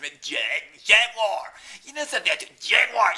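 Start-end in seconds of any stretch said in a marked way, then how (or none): 0.8-1.5 "Jaguar" as loud, high JAG-wahr; mock American "Jaguar", two syllables, strong final r; American pronunciation. Shown as a demonstration. Mocking Americans saying "Jaguar", loud JAG-wahr. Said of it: "but Americans". 2.6-3.1 "Jaguar" blared as JAG-wahr; exaggerated American "Jaguar", high and loud; American pronunciation. Shown as a demonstration. Mocking Americans saying "Jaguar", blaring two-syllable JAG-wahr. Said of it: "but Americans".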